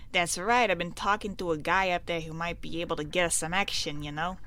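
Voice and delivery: lightly voiced small-time crook; a hint of gangster talking business; scheming mobster. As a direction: play a crook with a lead, lightly. Voices mobster in game dialogue.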